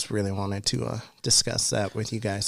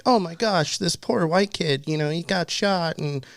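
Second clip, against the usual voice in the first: mock outrage; 5 semitones higher than usual. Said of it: "everyone's like".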